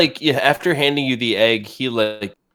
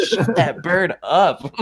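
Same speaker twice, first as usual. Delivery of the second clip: annoyed gruff order; 5 semitones higher, much slower than usual. Acted. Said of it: "he's like".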